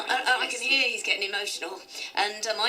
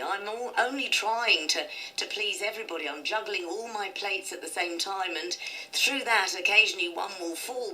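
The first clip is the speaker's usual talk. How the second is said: improvised soliloquy. Acted. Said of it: "you say for your soliloquy, "Enough is enough".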